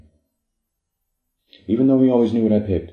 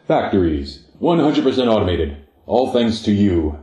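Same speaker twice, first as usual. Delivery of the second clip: upbeat, louder ad announcer voice; commercial announcer; 3 dB louder than usual. Acted. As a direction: sell it like a TV ad announcer. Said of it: "the announcer spoke".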